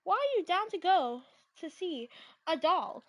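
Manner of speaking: disbelieving friend reply; incredulous. Retold or imitated. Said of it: "I would be like".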